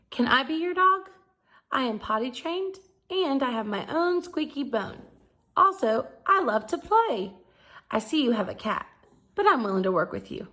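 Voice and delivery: bright, eager pup pleading for a home; eager dog voice. Acted. Arfie writing to the Yellow House family, eager and hopeful. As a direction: read it like a hopeful little dog.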